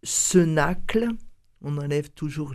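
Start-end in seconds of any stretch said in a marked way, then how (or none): 0.0-1.1 slow, careful dictation; spelling it out. Shown as a demonstration. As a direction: spell out each part slowly. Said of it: "je vais vous donner tout de suite le mail". (en épelant lentement)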